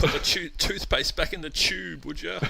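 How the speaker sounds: high, loud joking plea to stop; mock protest. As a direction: act out a hammed-up refusal to listen. Mock reaction to partner opening up.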